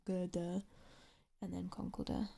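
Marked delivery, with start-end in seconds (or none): 0.1-0.6 Girder in an English accent, both Rs dropped; English accent, Girder ending in "uh". Shown as a demonstration. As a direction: say Girder the English non-rhotic way. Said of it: "sounds so stupid in my accent".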